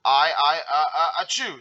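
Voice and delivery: stuttering build-up into a sneeze; sneezing. A narrator's reading. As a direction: build up loudly, then sneeze. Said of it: "SpongeBob sneezed".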